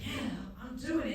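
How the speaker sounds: smiling, laughing reply; proud and happy about writing; imitating a grinning friend. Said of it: "You could hear the smile in his voice".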